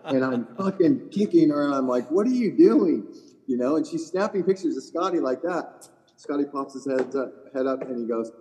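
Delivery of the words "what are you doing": higher and louder, a startled scold; husband scolding his wife for photographing a player; mock alarmed scold. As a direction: snap at her in disbelief. Hissing at wife snapping photos.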